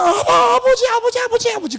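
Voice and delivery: high loud fervent cry; crying out to God. Shown as a demonstration. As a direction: cry out with all your heart. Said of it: "자세하게 얘기 안 해도 돼. 그냥". (높고 크게 간절히 부르짖는 소리)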